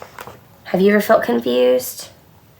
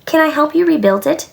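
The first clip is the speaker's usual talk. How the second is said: put-on quick, higher, kindly child's offer; 7 semitones higher, faster than usual. A narrator's reading. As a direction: offer help gently, pitch lifting. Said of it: "she asked kindly".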